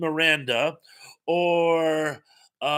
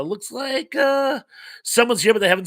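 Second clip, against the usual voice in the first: excited shout; 8 semitones higher, 4 dB louder than usual. Real, not acted. Spots a silent chatter.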